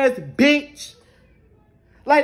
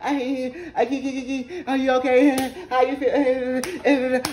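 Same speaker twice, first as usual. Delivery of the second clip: mocking imitation; 3 dB quieter than usual. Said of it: "in my motherfucking face like".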